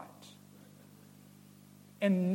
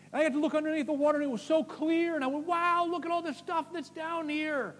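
high, fast and thrilled; breathless amazed retelling; wide-eyed wonder; 9 semitones higher, faster than usual. Retold or imitated. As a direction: gush like a kid seeing the reef. Excited retelling, far and high.

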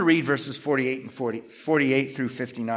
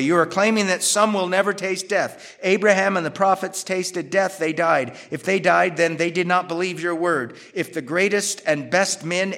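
louder, higher heated argument; arguing accusers; 3 semitones higher, 3 dB louder than usual. Acted. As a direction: press the case like a hostile opponent. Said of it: "They're arguing this way".

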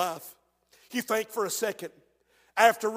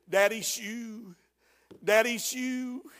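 lightly voiced little boy, slow and soft; little child voice; 3 dB quieter, slower than usual. Little Obed finds daddy's shoe, slow child voice. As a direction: draw it out slowly like a small child.

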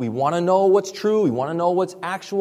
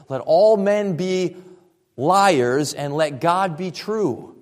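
slow, measured scripture quote; solemn scripture reading; much slower than usual. Acted. Pastor reading Romans to the congregation, slow and solemn. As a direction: read it slowly and weightily, like holy writ.

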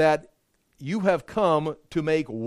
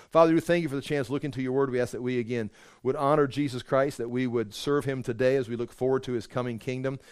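closing prayer; 4 semitones lower than usual. Acted. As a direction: pray it humbly, winding down.

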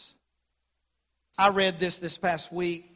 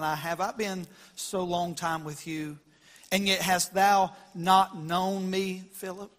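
gently. Acted. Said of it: "very gently".

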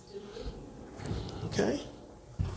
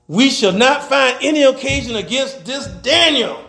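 disdainful; 5 semitones higher than usual. Acted. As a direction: declaim it with scorn for the man. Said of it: "Some disdain there".

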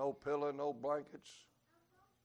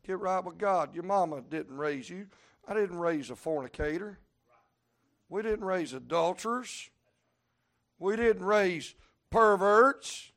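loud, higher preaching rebuke; stern preaching; 4 semitones higher, 10 dB louder than usual. Acted. Preacher rebuking wayward children for their parents, loud. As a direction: scold them like a wounded parent.

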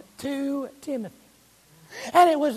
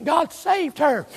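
preached shout; slower than usual. Shown as a demonstration. Preacher to congregation, booming slow proclamation. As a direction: proclaim it to the whole church. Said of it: "what in the world happened to that lady".

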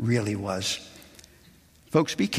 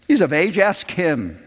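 a hint of nervous parents passing the blame; parents deflecting; 5 semitones higher, 4 dB louder than usual. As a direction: push the question away lightly.

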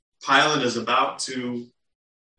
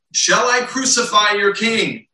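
higher, louder stress on I; incredulous Pilate; 6 semitones higher, 5 dB louder than usual. Retold or imitated. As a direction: put the question hard, higher and louder. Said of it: "he's almost incredulous".

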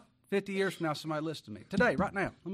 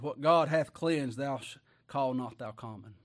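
slow solemn scripture; 3 semitones lower, slower than usual. Acted. Divine voice reading scripture.

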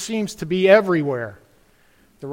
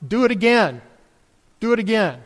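put-on child crying out; 3 semitones higher than usual. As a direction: call it out like a delighted child. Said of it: "the child ... will often cry out".

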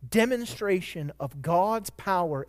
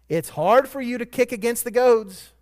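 emphatic quote; 6 semitones higher, 7 dB louder than usual. Acted. Preacher first quotes Jesus' words.

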